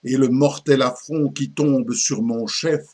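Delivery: declaimed mock-tragic lament of an old poet; lightly acted poetic declamation; theatrical verse recitation. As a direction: recite it like classical French tragedy, with measured emphasis. Recites the parody poem.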